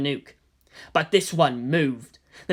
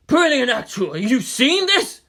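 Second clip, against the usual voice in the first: hissed; 8 semitones higher, 5 dB louder than usual. Acted. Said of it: "Beta Lead hissed into the radio".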